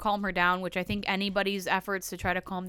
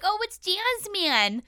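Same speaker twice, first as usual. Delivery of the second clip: high, drawn-out delighted greeting; mock-excited, slow and high-pitched; imitated excitement; 10 semitones higher, slower than usual. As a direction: mimic a man thrilled by her call. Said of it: "he's so excited".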